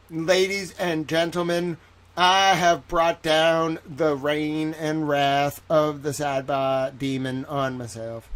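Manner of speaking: slow Southern orator's proclamation; Southern accent. Acted. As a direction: announce doom in a drawn-out Southern accent. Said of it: "I have a southern accent now".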